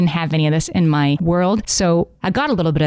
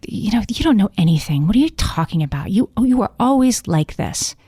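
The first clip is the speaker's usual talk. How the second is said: put-on eye-rolling teen brushing off her mom; bratty teenager; 3 semitones higher than usual. Teen daughter rejecting her mom, bratty teenage whine. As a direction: snap it back like a sulky teenager. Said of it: "playing the part of that teenager".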